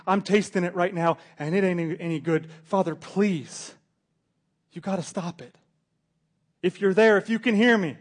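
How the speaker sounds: loud, high begging, slowing on the Father; desperate plea. Acted. Jesus on the cross begs the Father to stop it, loud desperate plea. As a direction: beg with your last strength.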